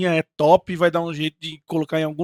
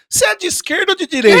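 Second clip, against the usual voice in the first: laughing; 12 semitones higher, 6 dB louder, faster than usual. Real, not acted. Provocative joke question.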